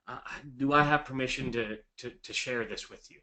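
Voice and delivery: softening, halting apology to a seller; remorseful seller. Shown as a demonstration. Agent confessing bad news to seller Gary, sheepish and apologetic. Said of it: "here's what that all sounds like".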